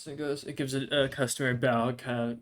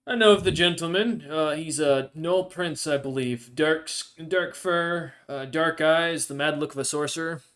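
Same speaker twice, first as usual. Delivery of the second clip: lightly voiced guild official, pitched a little up; raised-pitch Goliath official, lightly put on; 3 semitones higher, 5 dB louder than usual. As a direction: play a hint of a smiling Goliath official.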